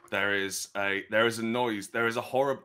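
usual speaking voice

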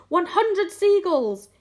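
high, loud, drawn-out tally; shout. A narrator's reading. James announcing his catch, shouting. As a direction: shout the count out slowly. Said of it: "he shouted".

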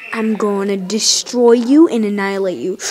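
low-pitched mock menace; low villainous warning; menacing threat. Threatening the enemy.

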